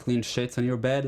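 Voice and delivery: "sheets" with a short i, like "shits"; mispronounced SHEETS. Retold or imitated. Actor re-enacting his foolish mistake, mispronounced "sheets". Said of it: "I did, like, these foolish mistakes".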